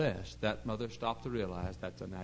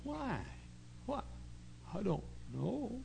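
put-on much higher, small, soft boy voice; mock boy voice; 10 semitones higher, 8 dB quieter, slower than usual. Preacher mimicking the scolded boy, high and soft. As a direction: whimper it like a scolded kid.

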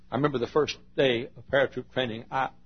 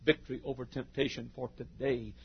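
slow, measured sermon refrain; deliberate pulpit rhythm; slow preaching cadence; slower than usual. Real, not acted. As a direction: lay each "for today" down like a promise.

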